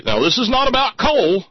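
high, loud mock protest; shrieked imitation of an indignant denial. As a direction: cry it out high and loud, held to the end. Imagined denial Gert did not make.

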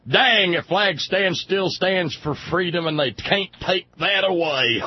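slow mock-proud declaration; mock patriotic dad. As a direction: ham up a flag-waving dad gazing at the flag. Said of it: "look up and see that flag and say".

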